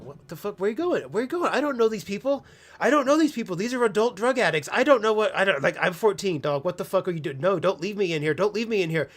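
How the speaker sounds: put-on a scared fourteen-year-old crying out as his cousin walks away; panicked pleading. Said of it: "I'm like".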